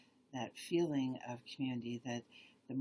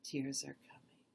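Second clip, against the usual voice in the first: meditative questioning; slower than usual. Shown as a demonstration. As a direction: pose the question gently, pausing between phrases. Slowly rephrases question in demo.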